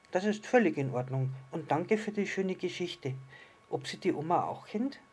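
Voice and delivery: contented little star. Acted. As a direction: thank him as a small, curious star.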